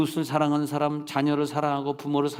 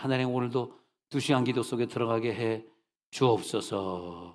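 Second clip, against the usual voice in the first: mock prayer; 3 semitones lower than usual. Voicing a prayer.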